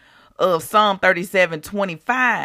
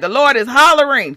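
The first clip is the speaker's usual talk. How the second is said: mock holler; 4 semitones higher, 6 dB louder than usual. Likens amplified scripture to hollering.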